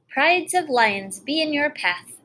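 put-on old fisherman. Fisherman greets the prince.

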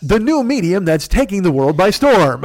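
rough mock mountaintop voice; Fearful. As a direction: proclaim it grandly, imitating an orator on a mountain. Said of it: "on the mountain voice. You know, I can't do his voice".

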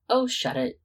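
high, loud laughing protest. Acted. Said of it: "Sirius laughed".

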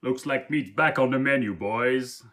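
a brutish orc calling his gang to eat. Retold or imitated. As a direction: growl it to your hungry pack.

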